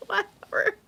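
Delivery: mock dismissive. Real, not acted.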